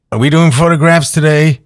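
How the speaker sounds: a lightly mocked American accent on the question; quasi-American accent. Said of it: "in this quasi-American accent".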